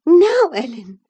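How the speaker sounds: put-on high, headstrong young lady, stung by her wound; defiant young woman in pain. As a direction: press on high and proud, wincing at the smart. Isabella addresses Ellen.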